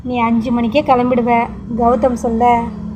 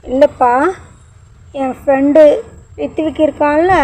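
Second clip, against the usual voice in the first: put-on higher, halting small boy's voice; boy telling his father about his friend; child's baby talk; 4 semitones higher than usual. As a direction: talk like a little kid telling dad a secret. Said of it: "Ashwin தன்னுடைய மழலை மொழியில்".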